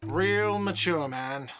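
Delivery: slow, drawn-out whiny jab; whiny shout. Acted. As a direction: whine it after someone leaving. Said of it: "a whiny voice shouts".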